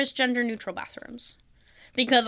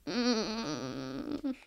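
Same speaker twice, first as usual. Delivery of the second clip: pained mm; 10 dB quieter than usual. Retold or imitated. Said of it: "And I'm just like".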